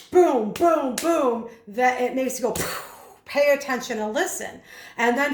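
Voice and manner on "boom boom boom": louder, higher, hitting each boom; punchy beats. Shown as a demonstration. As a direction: pound out each beat. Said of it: "the way that he said it was so".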